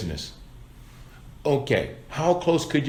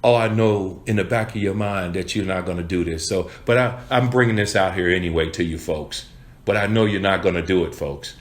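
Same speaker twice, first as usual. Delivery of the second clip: half-hearted, defeated; 4 semitones lower than usual. Shown as a demonstration. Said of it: "present your paycheck like".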